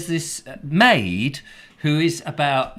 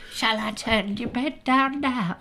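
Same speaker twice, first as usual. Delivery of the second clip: put-on high, drawn-out stab at a Welsh accent; attempted Welsh accent; 8 semitones higher, slower than usual. Comic telling of a maid at the hotel door, attempted Welsh accent. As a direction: imitate an old maid with a badly done Welsh accent. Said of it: "I can't do a Welsh accent".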